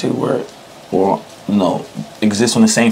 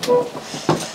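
laughing; 13 semitones higher than usual. Real, not acted. Laughing at his dirty shoe.

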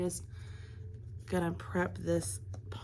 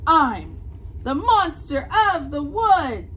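monster voice; 7 semitones higher, 9 dB louder, slower than usual. Acted. Monster introduces itself.

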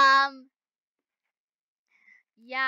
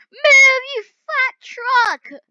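frantic yell; 12 semitones higher, 14 dB louder, much slower than usual. Real, not acted. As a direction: shout high and loud at the truck, slowing on the last words. Yelling at a truck while driving.

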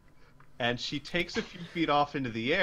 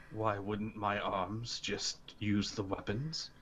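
troll voice; 5 semitones lower, 10 dB quieter than usual. Acted.

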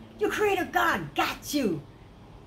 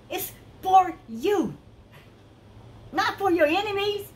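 preaching. Acted. Preacher insisting to his congregation, raised and fervent. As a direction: build it up like a preacher at the pulpit.

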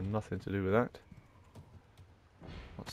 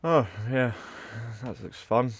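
loud gleeful bravado; cocky, hyped, pumped up; excited; 6 dB louder than usual. Real, not acted. Excited streamer with shotgun.

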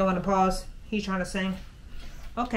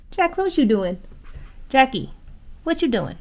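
pet talk; 4 semitones higher, 3 dB louder than usual. Real, not acted. Talking to the dog.

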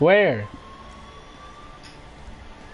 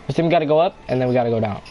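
fast, lower hurried instruction; rushed repeat; 5 semitones lower, much faster than usual. Shown as a demonstration. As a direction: rattle it off quickly. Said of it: "repeats the instruction faster".

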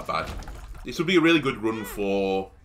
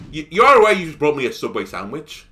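incredulous retort; 2 semitones higher, 5 dB louder than usual. Retold or imitated. Retelling argument with delivery guy.

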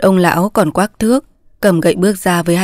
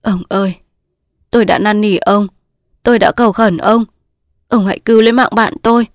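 emotional pleading. Acted. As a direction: implore him, gradually pressing harder. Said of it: "Chàng nắm tay ông cảm động". (van nài xúc động)

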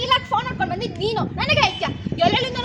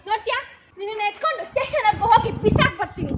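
angry scolding; 4 dB louder than usual. Acted. Elder sister scolding the cheeky child angrily. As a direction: scold the brat, loud on the threats.

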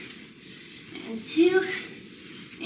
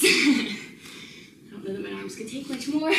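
laughing. Real, not acted. Arms tired in last reaches.

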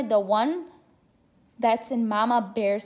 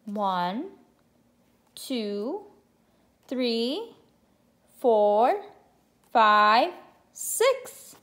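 excited counting; much slower than usual. Shown as a demonstration. Counting aloud with children.

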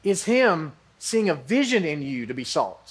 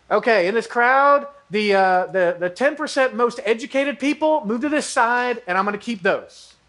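mock picky recruiter; 4 semitones higher than usual. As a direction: play a shallow boss sorting the crowd. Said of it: "he didn't say".

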